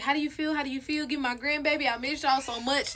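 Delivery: lightly voiced fake-caring mother; soft, put-on concern; fake sweet mom. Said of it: "just playing that little role".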